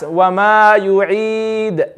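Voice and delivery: yu'id ended on a plain sukoon; slow Wa ma yu'id with silent stop; stop with iskan. Shown as a demonstration. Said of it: "That's iskan".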